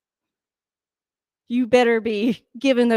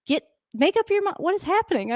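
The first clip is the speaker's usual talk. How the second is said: exasperated confusion; 9 semitones higher than usual. Real, not acted. Confused shouting at TV.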